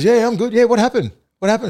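high, groggy "what happened"; dazed mate. Retold or imitated. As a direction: play the confused big guy. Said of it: "He goes".

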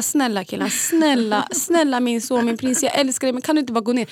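coaxing, pleading sweet talk; retold gentle begging; nice tone. Mum begging her son to get down, nice tone. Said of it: "Jag säger med fin ton".

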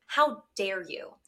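slow, deliberate indignation; slow, controlled mock scolding; restrained retold outrage. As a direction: spell out the outrage slowly, without raising the voice. Retold fury at the child.

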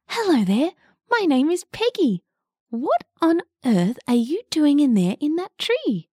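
a curious little woodpecker. Acted. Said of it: "Peggy replied".

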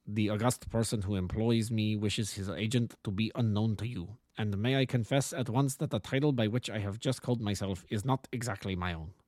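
lightly voiced formal Bohemian nobleman with German accent; a touch of a harsh German-accented aristocrat; German-accented count. Client introducing himself to the detective, lightly voiced German-accented count. Count explains his disguise.

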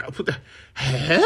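baffled double-take, drawn out. Retold or imitated. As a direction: stumble into a drawn-out "huh?". Retelling baffled reaction to posh habit.

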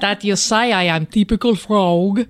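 mock French accent. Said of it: "he doesn't sound French".

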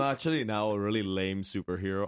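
gravelly sore-throat rasp; hoarse voice. Real, not acted. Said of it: "you still sound like gravel".

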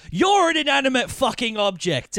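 high-pitched mock outburst; imitated phone yell. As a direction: act out a film character yelling at his wife. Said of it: "Rafe Fiennes yells at his wife down the phone".

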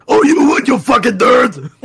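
teasing jeer. Real, not acted. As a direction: jeer at them through a laugh. Teasing the other's choice.

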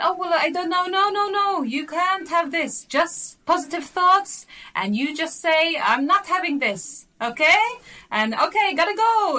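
high, loud, slow relative lecturing; bossy relative. Retold or imitated. Relative on FaceTime scolding about positive thoughts. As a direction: lay down the law like a fussing aunt. Relative giving advice on phone.

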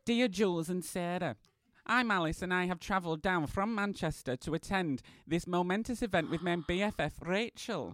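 lightly voiced grandmother; grandma Alice. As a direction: read the letter as a gently put-on granny. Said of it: "take on my grandma Alice".

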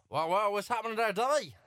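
loose stab at an Australian accent; attempted Australian accent. Shown as a demonstration. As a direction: have a go at sounding Australian. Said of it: "can you do an Australian accent".

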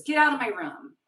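high, loud imitated kid shouting; angry demand. Daughter shouting mom out of her room, imitated yell. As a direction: bark it like an upset six-year-old.

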